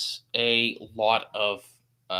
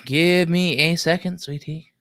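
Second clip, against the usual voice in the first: mock sweet; 3 semitones higher than usual. Streamer teasingly soothes his waiting friend, mock sweet and slow. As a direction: coo it like talking to a baby, half joking. Same request redone sweetly.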